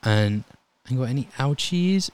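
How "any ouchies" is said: put-on higher, slow, sing-song kid voice; talking to a child. EMT checking a ten-year-old for injuries, higher and sweetly slow. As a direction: coax a little girl gently.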